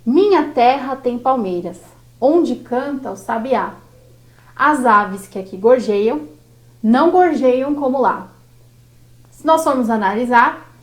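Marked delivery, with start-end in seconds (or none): 0.1-8.3 poem recital. Shown as a demonstration. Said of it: "que começa assim".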